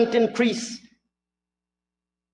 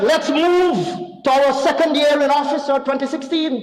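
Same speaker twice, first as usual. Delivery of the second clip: mock dramatic announcement; 5 semitones higher than usual. Mimicking opponent's dramatic delivery.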